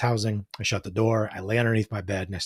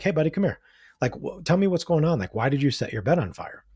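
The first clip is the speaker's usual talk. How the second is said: gentle fireman; 6 semitones higher than usual. Retold or imitated. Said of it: "let me just ask him a question".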